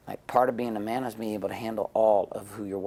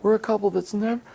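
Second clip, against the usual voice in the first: put-on high, loud proud boast of an old couple; bragging grandparents; 14 semitones higher, 6 dB louder than usual. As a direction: lay it on thick like a smug old-timer. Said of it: "they would always brag".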